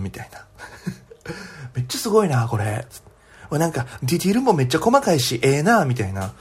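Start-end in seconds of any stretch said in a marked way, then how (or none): 1.7-5.8 imitating a Kansai gal's chatter; lightly mimicked Kansai dialect; Kansai accent. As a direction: chat admiringly like a Kansai schoolgirl. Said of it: "すっごい関西弁が聞こえてくるんです".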